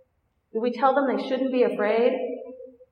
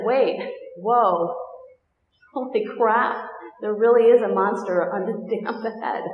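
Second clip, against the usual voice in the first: mock alarm. Teacher mock-startled to class, discovering a real monster under the bed. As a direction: play the shock of a real monster, lightly.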